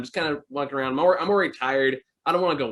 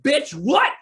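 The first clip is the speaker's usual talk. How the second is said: much higher, loud shouted outburst; yelled heckle; 13 semitones higher, 5 dB louder than usual. Retold or imitated. Woman in the theater yelling at the movie, loud heckle. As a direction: yell it at the screen as loud as you can. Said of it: "just yells out".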